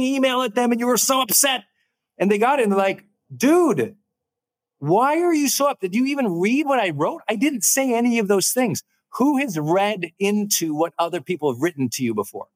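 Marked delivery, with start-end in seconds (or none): 3.3-8.8 higher, incredulous imitation of the recipient; puzzled reply. Recipient asking the upset writer why, mildly incredulous. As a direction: play the baffled friend.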